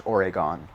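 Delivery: Oregon said with full vowels, O-re-gon; learner's Oregon. Shown as a demonstration. Mocking learner-English Oregon. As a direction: sound it out like a learner. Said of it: "how I would pronounce it if I was just learning English".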